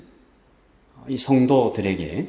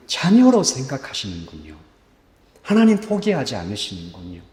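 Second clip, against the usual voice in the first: softly confessing. Acted. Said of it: "하나님 앞에 고백을 하냐면".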